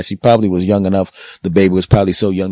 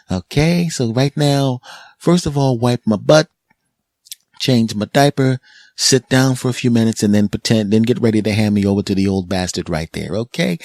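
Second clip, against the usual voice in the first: put-on higher bossy baby orders; 4 semitones higher than usual. Baby giving mom instructions, higher and bossy. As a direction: boss mom around up high. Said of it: "the baby says".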